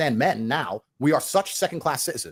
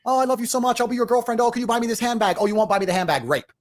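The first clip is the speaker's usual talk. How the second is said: mock girlfriend voice; 5 semitones higher than usual. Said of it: "far more honest than saying".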